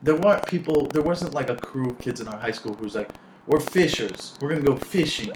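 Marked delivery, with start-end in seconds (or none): 3.4-5.3 lightly put-on Southern fisher accent; a hint of a Southern country accent; fisher's accent. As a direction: imitate Southern fishing kids. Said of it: "just try to do your fisher's accent".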